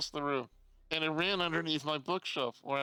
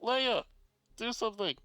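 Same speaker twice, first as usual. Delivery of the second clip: exasperated outburst; 9 semitones higher than usual. Retold or imitated. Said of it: "I'm like".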